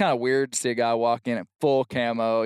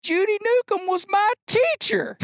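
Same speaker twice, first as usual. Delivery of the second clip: put-on high drunken holler; hammed-up drunk yell; drunk man answering. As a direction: call it out fondly like the barfly.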